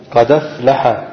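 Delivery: قد أفلح joined as qadaflaḥa, the dal given a fatha; قد أفلح with the hamza dropped; transfer reading. Shown as a demonstration. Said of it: "كيف نقول؟".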